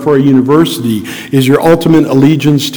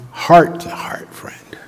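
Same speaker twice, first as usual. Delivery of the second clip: whispered, slow; tender whisper about a friend; hushed; 2 semitones higher, 5 dB quieter, much slower than usual. Real, not acted. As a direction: let it drop to a whisper. Confiding about best friend.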